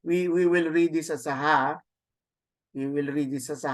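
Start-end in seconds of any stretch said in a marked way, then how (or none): 1.3-1.8 ha with an audible h at the start; rough breathing. Shown as a demonstration. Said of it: "this is clearly a rough breathing".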